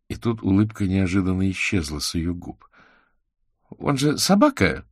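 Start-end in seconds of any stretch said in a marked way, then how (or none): 3.8-4.9 unsure. A narrator's reading. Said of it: "неуверенно спросила она".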